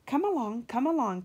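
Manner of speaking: eager puffing chant; rhythmic engine puff; puffing call. Acted. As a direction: urge them on in rhythm. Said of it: "puffed James".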